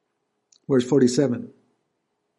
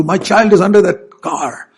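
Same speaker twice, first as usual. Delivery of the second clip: alarmed mother; 6 semitones higher, 6 dB louder than usual. Pretend. Mother sees her child trapped.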